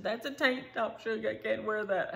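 put-on high, prim little-girl voice; mildly high sassy kid correcting grandma; sassy child. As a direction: scold like a tiny know-it-all.

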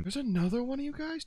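normal talking voice

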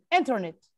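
انترنت with ان hit hard, rest quick; انترنت, strong ان, light ternet; stress on first syllable. Shown as a demonstration. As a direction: hammer ان in انترنت. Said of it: "دقيته على الان".

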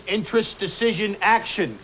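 normal talking voice

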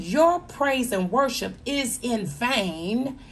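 rising sermon build, pushing harder; preaching. Acted. Preacher warning worshippers who hide hate, building. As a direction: call out empty praise with conviction.

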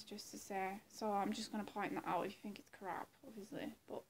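ordinary talk, nothing marked

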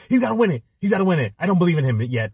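high mocking Shannon Sharpe voice; sneering high-pitched take on an analyst's doubt; imitating Shannon Sharpe. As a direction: mimic him high and whiny. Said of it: "he's like".

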